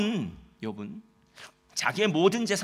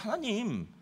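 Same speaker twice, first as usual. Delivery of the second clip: building, louder aggrieved plea; aggrieved complaint; 3 dB louder than usual. Acted. Preacher voicing Job protesting his suffering, mildly aggrieved. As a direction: protest your innocence to God, rising in force. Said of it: "억울하다는 얘기를 했어요".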